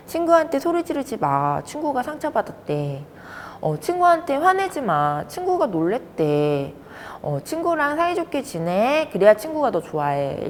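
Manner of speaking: lightly acted parent, high starts falling away; nagging parent. Parents repeatedly coaching their child about friends, lightly acted nagging. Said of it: "엄마, 아빠가 부단히 아이한테 얘기를 했을 거예요".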